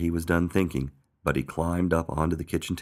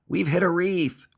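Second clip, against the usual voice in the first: high, slow cry of alarm; drawn-out dramatic dismay; alarmed gasp; 3 dB louder than usual. A narrator's reading. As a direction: announce disaster in a high voice. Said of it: "he gasped".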